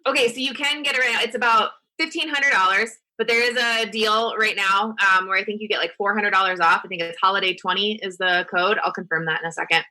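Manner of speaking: upbeat sales pitch read; infomercial voice. Pretend. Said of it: "you sound like the infomercial".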